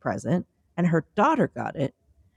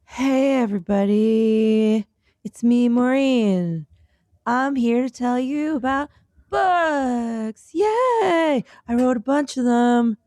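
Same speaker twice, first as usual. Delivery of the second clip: excited; 5 semitones higher, much slower than usual. Acted. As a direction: sell it like an eager host. Bubbly self-introduction plug.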